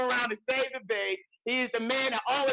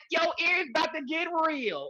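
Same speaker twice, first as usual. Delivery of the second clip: playful shout; 4 semitones higher than usual. Acted. Warns cohost about screaming in ear.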